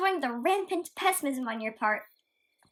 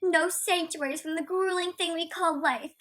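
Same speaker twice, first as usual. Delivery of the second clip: mocking quote. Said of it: "the funniest clown I've ever heard".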